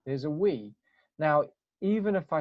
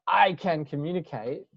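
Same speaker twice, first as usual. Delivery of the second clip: "I can communicate" pushed out louder with a rise, like a pep slogan; 2 semitones higher, 5 dB louder than usual. Shown as a demonstration. Coach mocks forced self-talk as a loud slogan. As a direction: sell "I can communicate" like fake-it-till-you-make-it. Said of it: "sounds like it's a slogan to tell yourself".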